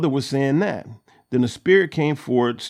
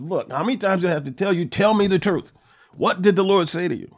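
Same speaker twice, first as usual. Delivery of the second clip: fast, higher, impatient demand; exasperated king; 6 semitones higher, faster than usual. Retold or imitated. Ahab pressing Micaiah for the truth, fast and exasperated. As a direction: push him hard for the truth. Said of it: "Ahab gets mad".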